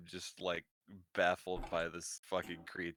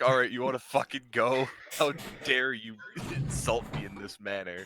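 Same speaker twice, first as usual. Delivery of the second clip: mock outrage; 4 semitones higher, 4 dB louder than usual. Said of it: "we're both just like".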